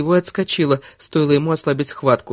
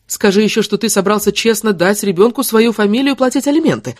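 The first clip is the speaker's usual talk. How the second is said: higher-pitched scornful dare; angry sarcasm; 6 semitones higher than usual. Acted. Woman taunting her baby's father, scornful. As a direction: taunt them with disbelief. She taunts him in the quarrel.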